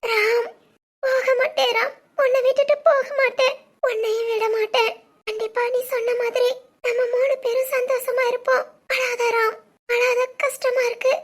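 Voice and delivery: laughing through tears; tearful promise, half sob and half laugh; crying. Acted. Wife comforting her crying husband through tears. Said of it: "நீயும் அழாத".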